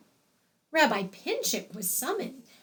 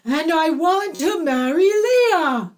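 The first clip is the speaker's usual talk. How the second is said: loud, higher gravelly cry; 5 semitones higher, 8 dB louder than usual. A narrator's reading. Possessed bride demands the wedding, in a loud gravelly voice. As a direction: belt it out with gravel, rising. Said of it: "said Leah in that gravelly voice".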